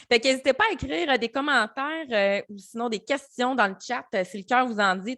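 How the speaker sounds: rally the viewers to comment, brisk and lively; upbeat host appeal. Real, not acted. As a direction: livestream host inviting chat comments, upbeat and quick.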